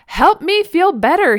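high, loud, drawn-out plea; mock toddler shout. A narrator's reading. Toddler telling mom what was wrong, high mock shout. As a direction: imitate a small child yelling for comfort. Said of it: "he shouted at me".

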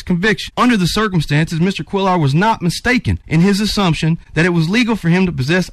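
passionate reading. Real, not acted. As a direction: read the judgment out with real conviction. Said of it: "You're passionate".

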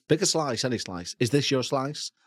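lightly voiced magician offering a slice; a hint of a card trick patter; mock magician patter. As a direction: softly play the stage magician. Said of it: "Sound like a magician".

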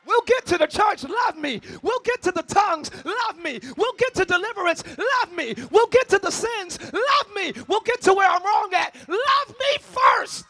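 loud, rising preacher's call and response; love me first hollered at the peak; preaching at full force. Acted. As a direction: preach it, building to a cry.

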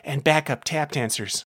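lightly voiced jittery barkeep; nervous bartender. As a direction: babble on like an anxious temp worker. Nervous temp bartender explains.

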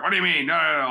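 high-pitched mock protest; defensive, angry. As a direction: act out dad protesting defensively. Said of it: "he's gonna get defensive and angry".

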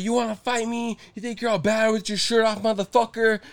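high-pitched imitation of an angry challenger; mock fighting challenge. Retelling the man squaring up to him, mock angry challenge. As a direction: taunt like a riled-up guy looking to brawl.

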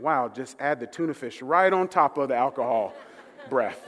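chuckling through the joke; amused, laughing aside. Retold or imitated. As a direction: laugh as you say it. Joking about the drunk man's breath.

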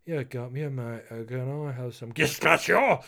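mock diner, hammed-up Spanish "gazpacho"; overdone Spanish pronunciation. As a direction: burst loudly into exaggerated Spanish on "gazpacho". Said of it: "don't throw all that into that".

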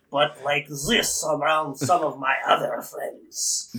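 put-on slow Transylvanian accent; lightly put-on Transylvanian vampire accent. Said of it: "and a Transylvanian accent".

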